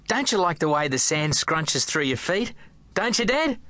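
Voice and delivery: put-on a boy asking his dad at the beach, eager; happy young boy. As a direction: bubble with delight at the beach.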